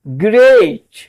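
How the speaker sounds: ग्रेट said "grayt", rhyming with एट; pronunciation demo. Shown as a demonstration. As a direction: land ग्रेट clearly as "grayt". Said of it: "एट पढ़ा जाता है". (ग्रेट को "एट" की आवाज़ से बोलना)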